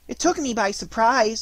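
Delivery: high, loud flustered squeak; rattled little animal; nervously. A narrator's reading. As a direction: explain nervously, pitched high. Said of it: "said Piglet nervously".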